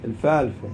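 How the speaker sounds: "الفالفة" with both th sounds turned to f; dialect pronunciation. Shown as a demonstration. Teacher joking about our dialect, local f in "الفالفة". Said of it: "بلهجتنا".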